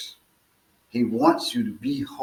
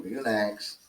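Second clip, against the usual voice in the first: calm and polite. Retold or imitated. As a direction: settle him down gently, you know the way out. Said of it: "politely and calmly says to him".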